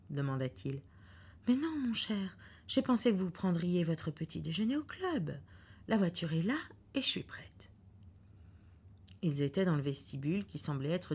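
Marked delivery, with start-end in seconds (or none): 1.5-7.7 higher voice for Mrs Foster; lightly voiced anxious wife; wife's reply. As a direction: answer sweetly, ready to leave.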